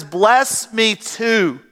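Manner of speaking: slow, drawn-out imitated plea; retold cry. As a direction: stretch it out like a mild cry for a blessing. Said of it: "He cried, he says".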